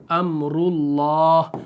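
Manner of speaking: अमरुल्लाह very slow, रु thick; heavy ru recitation. Shown as a demonstration. Teacher writing another example, slow heavy ru. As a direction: recite अमरुल्लाह with a full-mouthed रु. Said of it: "मुंह भर के पढ़ना है".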